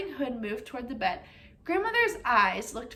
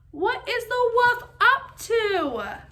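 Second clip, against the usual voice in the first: slow, higher, louder spooky question; eerie aside; 8 semitones higher, 5 dB louder, much slower than usual. Acted. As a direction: draw it out eerily to the kids. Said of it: "narrator's aside to listeners".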